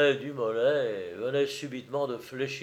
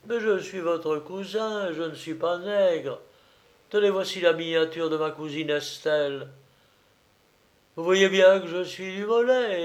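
earnest, insistent plea, pitched up at first; protesting Dumolay; 4 semitones higher than usual. Acted. Dumolay proving he is the cousin, insistent. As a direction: plead to be recognised.

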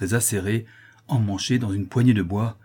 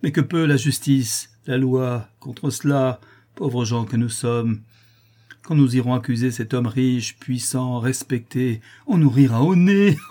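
raised, agitated railing, peaking loud; desperate indignation breaking towards laughter; bitter despair; 3 semitones higher, 4 dB louder than usual. Acted. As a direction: rail helplessly against injustice. Despairing father rails at injustice.

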